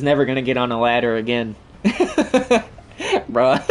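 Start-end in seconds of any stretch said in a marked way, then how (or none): 1.8-3.7 high helpless laughter; can't stop laughing; laughing hard. Real, not acted. Gamer cracking up about the host fleeing.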